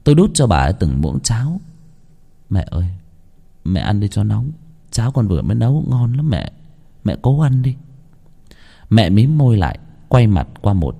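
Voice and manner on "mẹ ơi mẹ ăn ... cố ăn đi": soft, gentle pleading to his sick mother; tender coaxing. Acted. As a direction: coax her softly to eat. Son feeds his paralysed mother.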